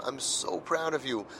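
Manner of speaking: quiet, heartfelt praise for a son; tender praise. Retold or imitated. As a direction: say it gently and sincerely to the boy.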